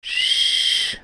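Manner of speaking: a sharp hushing "Sch-"; shushing. A narrator's reading. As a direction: hush him quickly. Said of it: "mahnte sie Jora zur Ruhe".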